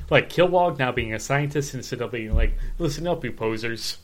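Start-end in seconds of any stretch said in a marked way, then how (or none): 2.8-4.0 lightly voiced drill sergeant; a hint of a drill sergeant calling recruits to attention. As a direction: do a mild drill sergeant impression, barely raised. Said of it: "best drill sergeant impression".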